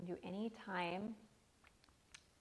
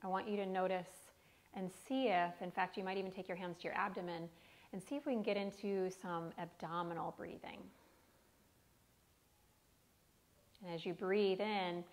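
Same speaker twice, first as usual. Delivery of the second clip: guided meditation. Acted. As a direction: lead the breath gently. Guided breathing instructions.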